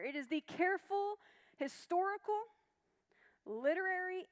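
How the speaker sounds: careful, historical, literary each set apart by pauses; emphasized key words. Shown as a demonstration. Teacher reading a definition to the class, key words careful, historical, literary emphasized. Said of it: "few words I really wanna emphasize".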